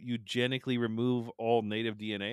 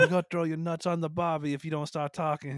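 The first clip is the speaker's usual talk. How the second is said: higher, louder mock Australian accent; Australian mobster; 4 semitones higher, 5 dB louder than usual. Imagined mobster threatening someone over the barbie, mock Australian accent. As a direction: threaten like a hammed-up Aussie mobster. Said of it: "I'm gonna say Australian accent".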